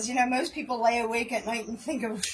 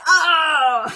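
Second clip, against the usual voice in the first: surprised; 4 semitones higher, 9 dB louder than usual. Retold or imitated. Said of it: "And I'm like".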